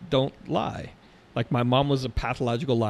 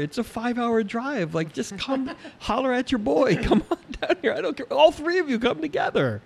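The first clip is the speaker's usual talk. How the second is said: mock cocky reply; 12 semitones higher than usual. Mock-bragging reply to girls.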